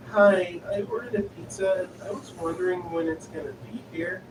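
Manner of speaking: lightly voiced small girl, unsure; nervous little girl. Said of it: "She sounded obviously very nervous".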